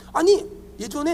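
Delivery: usual speaking voice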